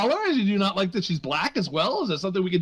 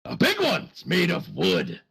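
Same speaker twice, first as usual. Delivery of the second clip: gruff pirate; 3 semitones lower than usual. Acted. GM answers as pirate.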